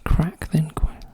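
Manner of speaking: voiceless, drawn-out murmur; slow whisper. Real, not acted. Solver mulling the clue wording in a slow whisper. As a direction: whisper it slowly, thinking.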